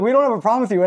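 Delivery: earnest American reassuring a Canadian visitor; sincere apologetic American. Retold or imitated. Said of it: "they're like".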